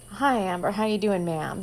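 lightly voiced polite Texas drawl; a hint of a courteous Texas cowboy drawl. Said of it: "in his most polite Texas drawl".

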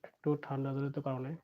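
muffled, speaking behind a mask; through a face mask. Real, not acted. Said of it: "মুখে mask পরে আছি". (মাস্কের ভেতর দিয়ে চাপা গলায়)

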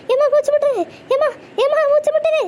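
acting breathless and choking; drowning woman struggling for air; gasping for breath. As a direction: gasp out cries of suffocation. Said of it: "என்ன நடி நடிக்கா பாரு கிளவி. அப்ப மூச்சு முட்டுதுன்னு".

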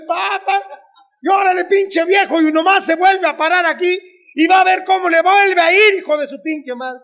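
put-on shouted up high, telling the old man off; mock yell at father. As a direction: holler it like an angry wife. Mother yelling at father.

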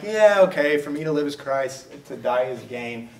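dismissive shrug. Retold or imitated. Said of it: "our attitude is like".

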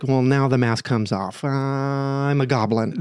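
slow, growly goblin reveal. Retold or imitated. The guy dropping his mask, slow mock goblin voice. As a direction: drag out the goblin line. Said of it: "he was like".

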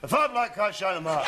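"A fat black cat sat on the mat" still in broad Scots with a laugh; Scottish accent. Shown as a demonstration. Student trying the whole sentence for the teacher in broad Scots. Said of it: "Now try the whole thing".

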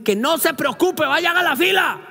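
mock dismissive agent. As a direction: wave him away to the line. Agent brushing him off.

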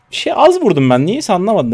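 loud, high-pitched frustrated complaint; baffled protest. Real, not acted. Player complaining his damage fell short, loudly baffled.

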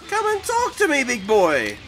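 high teasing call; mock taunt. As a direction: goad him playfully. Taunting opponent.

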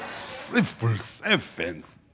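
"Civil servants" very slow, laughing; drawn-out civil servants. Shown as a demonstration. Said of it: "Mina, civil".

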